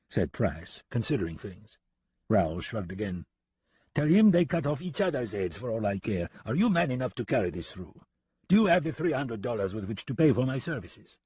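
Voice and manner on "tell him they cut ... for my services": put-on French-accented challenge, higher at times; pressing French gunman. French gunman demands payment from deputy, challenging French accent.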